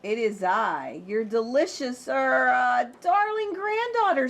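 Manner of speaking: slip, then cover with a sweet high voice; wolf's high voice. Acted. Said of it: "said the wolf in a high voice".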